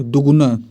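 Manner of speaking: दुगुना with a short दु. Shown as a demonstration. Teacher correcting the spelling, short vowel. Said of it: "दो गुना नहीं बल्कि दुगुना".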